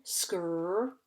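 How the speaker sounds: "skr" blend said on its own, slowly and clearly; sounding out the blend. Shown as a demonstration. Teacher isolates the blend "skr" for pupils, sounding it out slowly. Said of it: "So we have the blend".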